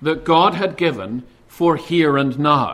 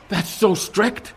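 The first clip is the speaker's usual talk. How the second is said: mock outrage; slower than usual. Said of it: "Satan says".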